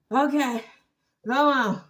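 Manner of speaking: mock winded, panting words; puffing like a tired jogger; out of breath. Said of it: "All out of breath".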